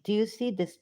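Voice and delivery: ordinary talk, nothing marked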